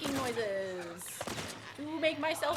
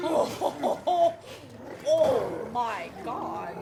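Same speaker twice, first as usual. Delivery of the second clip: laughing out loud; laughing hard; 6 dB louder, much slower than usual. Real, not acted. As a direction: crack up laughing.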